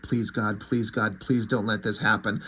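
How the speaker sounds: low, softened repeated plea; pleading inner prayer. Retold or imitated. He prays to himself not to react, quietly pleading. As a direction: pray under your breath, lightly acted.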